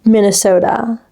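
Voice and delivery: American-style "Minnesota"; American accent. Shown as a demonstration. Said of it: "You just can't say Minnesota".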